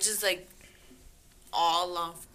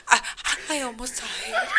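mock crying; 4 semitones higher than usual. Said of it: "He's on the phone crying".

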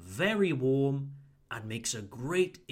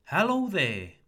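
warmer greeting; 4 semitones higher, 4 dB louder than usual. Shown as a demonstration. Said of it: "simply add the word there".

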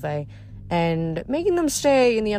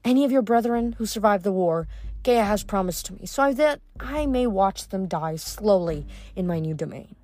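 sneering, gloating threat; cruel sorceress. Acted. Pasiphae threatens demigods.

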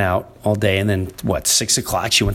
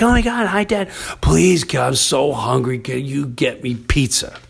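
daughter's plea; 3 semitones higher than usual. Retold or imitated. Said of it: "she's like".

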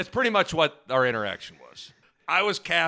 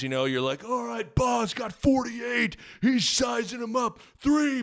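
out of breath; 2 semitones lower than usual. Real, not acted. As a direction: speak short of breath. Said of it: "Sounds like you're out of breath".

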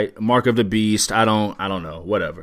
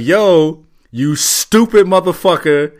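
mildly raised, exasperated mock yell; yelling at the screen; 3 semitones higher, 3 dB louder than usual. Viewer berating the idiot on screen, mock yelling. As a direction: scold a movie character, a little louder. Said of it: "people are yelling at the screen like".

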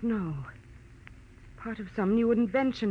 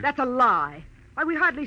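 indignant denial; 4 semitones higher, 7 dB louder than usual. Acted. Denies accusation hotly.

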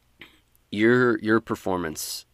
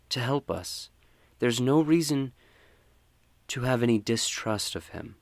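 higher, reassuring council fisherwoman; smooth the worries over, pitched up high; fisherwoman Valdi; 6 semitones higher than usual. Acted. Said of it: "Valdi says".

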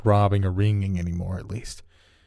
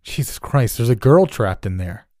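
alarmed; 3 semitones higher, 5 dB louder than usual. Acted. Stranger discovers trapped girl.

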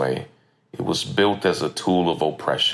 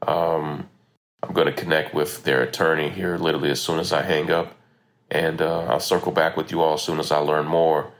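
recorded on a phone; lo-fi phone memo sound. Real, not acted. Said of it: "Sorry for the audio quality today".

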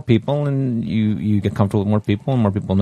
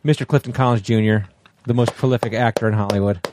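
podcast host intro. Shown as a demonstration. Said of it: "Let me do it".

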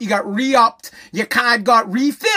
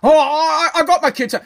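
mock protest; 3 semitones higher than usual.

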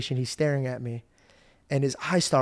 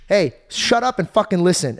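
mock stern yell, higher and a bit louder; angry parent; 4 semitones higher, 5 dB louder than usual. Retelling how the parents really scolded him, mock yell. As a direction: bark it like a fed-up dad.

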